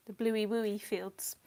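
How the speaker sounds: put-on slow, playful baby talk. Painter showing viewers the family baby talk, slow and playful. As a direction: stretch it out like talking to a toddler. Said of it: "how we speak now".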